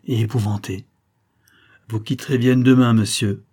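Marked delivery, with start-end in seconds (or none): 1.9-3.4 plus fort, sec et tranchant; trancher, sans appel; ton bref. Acted. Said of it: "d'un accent bref". (le comte ordonne à Garnier de quitter Vienne, bref)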